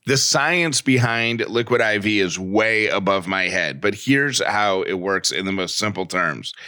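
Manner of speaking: fluent, steady sponsor read. Acted. Host selling hydration powder to listeners, ad read. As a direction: pitch the product like a podcast host.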